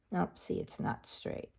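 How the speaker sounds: whispered aside to herself. Real, not acted. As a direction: breathe it out under her breath. Checking the page up close.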